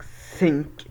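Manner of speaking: "سينك" starting with a hissed s, as in sink; pronounced with S. Shown as a demonstration. Teacher warning learners against it, "سينك" said with an s. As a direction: say "سينك" with an s, tongue kept in. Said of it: "بالسين".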